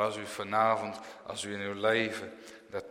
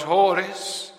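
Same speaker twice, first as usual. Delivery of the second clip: Paulus calling; 7 semitones higher, 5 dB louder than usual. Retold or imitated. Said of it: "dan zegt Paulus".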